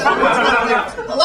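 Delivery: high camp "hello" caricature; stereotyped gay-guy voice. Acted. Comic imitating a stereotypical gay guy, high campy greeting. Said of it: "gay guys who act like that".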